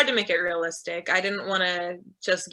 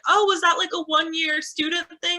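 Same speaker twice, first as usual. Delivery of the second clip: curious questioner; 9 semitones higher, 3 dB louder than usual. Retold or imitated. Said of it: "people were like".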